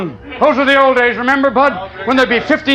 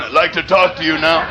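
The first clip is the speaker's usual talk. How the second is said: large woman Betty; 7 semitones lower than usual. Retold or imitated. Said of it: "A large woman named Betty's going".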